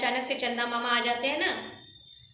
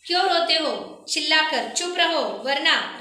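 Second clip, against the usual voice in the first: a touch of angry scolding, voice raised higher; 4 semitones higher than usual. Acted. Judge Raat Rani scolds the wailing children, mildly angry. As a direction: snap at the children to stop crying. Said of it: "रात रानी गुस्से से कांपने लगती है".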